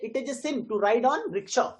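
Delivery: slow model reading stressing "sin" and "ride"; measured line with "sin", "ride", "rickshaw" set apart; stressed content words. Shown as a demonstration. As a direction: pause slightly after "sin", then stress "ride". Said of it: "आप इसको पढ़ेंगे कैसे".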